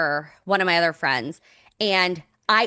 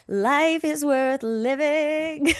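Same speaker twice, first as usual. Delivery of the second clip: dramatic relief; 8 semitones higher, much slower than usual. Acted. Relief after months of sickness.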